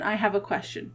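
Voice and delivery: softly repeated, almost under breath; quiet. Acted.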